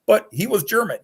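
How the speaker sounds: high indignant near-shout, slowing on "He was not French"; real upset rant. Real, not acted. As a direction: vent about the game's accent choice. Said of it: "but I get upset by stuff like that".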